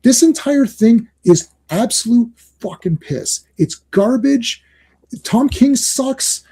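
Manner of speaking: slow furious dismissal of the writer; angry rant. Real, not acted. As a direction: spit out the verdict slowly. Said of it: "angry rant".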